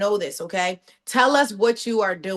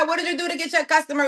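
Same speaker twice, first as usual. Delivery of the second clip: excited; 6 semitones higher, faster than usual. Real, not acted. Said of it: "excited repeat".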